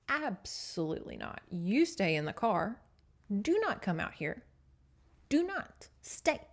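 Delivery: emphatic mock scolding, word by word; stern orders. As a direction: lay down the law with pauses between commands. Brothers order her to stay put.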